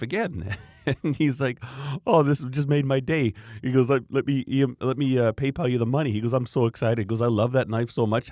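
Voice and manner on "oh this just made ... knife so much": imitating a thrilled customer, higher and louder; bubbly, delighted retelling of a grateful customer; excited customer. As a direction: gush with delight like a happy buyer. Customer thrilled by free knife.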